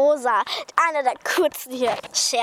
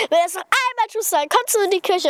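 woman's warning; 4 semitones higher than usual. Retold or imitated. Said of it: "Und hat gesagt".

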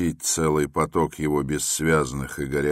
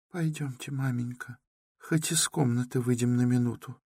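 high, much softer frightened sister; frightened whisper; 8 semitones higher, 5 dB quieter than usual. A narrator's reading. Dunya softly urges her mother to leave the room, frightened. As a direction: hush urgently, scared. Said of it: "шепнула испуганная Дуня".

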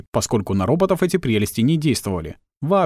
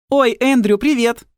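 put-on much higher, louder girlish greeting; Tilly voice; 12 semitones higher, 4 dB louder, slower than usual. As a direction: chirp at him, pitched up.

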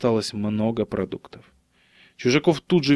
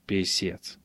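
low, quiet mutter; soft, dropped-pitch muttered curse; 4 semitones lower, 8 dB quieter than usual. A narrator's reading. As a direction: mumble it under your breath. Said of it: "пробормотал Мельниченко".

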